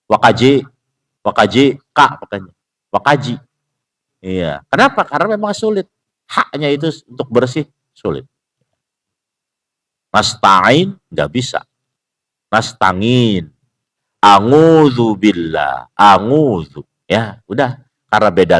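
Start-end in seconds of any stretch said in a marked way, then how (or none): 0.1-3.3 put-on Javanese accent. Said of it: "Pakainya apa? Ka ya". 10.1-13.5 Javanese pronunciation. Retold or imitated. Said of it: "Bunyi ha di orang Jawa". 14.2-16.8 Javanese pronunciation. Retold or imitated. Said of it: "orang Jawa".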